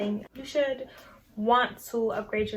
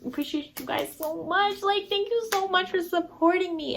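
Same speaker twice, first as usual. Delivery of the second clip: sweet, high-pitched gratitude; gushing thanks; 8 semitones higher than usual. Real, not acted. Vlogger thanking her subscribers, gushing high and sweet. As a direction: gush thanks in a higher, softened-up voice.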